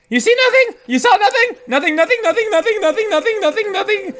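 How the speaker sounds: high, laughing sing-song taunt; mock taunt. Taunting the enemy who cannot see him, high and laughing. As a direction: tease the blind guard in a high giggly voice.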